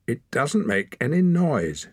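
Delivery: high-pitched, pointed accusation; accusing. A narrator's reading. Girl doubts the boy's silent whistle, accusing. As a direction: challenge the explanation. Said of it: "she said accusingly".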